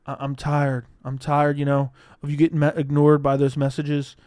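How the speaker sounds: loud hammed-up hype speech to a heartbroken fighter; over-the-top locker room encouragement; mock pep talk. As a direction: pump him up like a corner coach between rounds, half joking. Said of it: "I'd be like".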